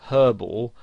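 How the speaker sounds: herbal with the H sounded; British pronunciation. Shown as a demonstration. Tutor naming the word before explaining American English, H sounded in "herbal". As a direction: say "herbal" with a clear breathed H at the start. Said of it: "has the H silent".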